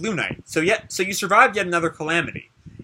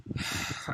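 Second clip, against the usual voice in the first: sigh; 16 dB quieter than usual. Acted. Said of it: "And he sighs for a moment".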